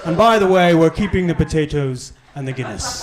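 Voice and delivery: a lighter touch of the posh voice; Rees-Mogg impression. Rees-Mogg adding a parting jibe, lightly posh. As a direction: tail off the posh sneer. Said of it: "Did that impression".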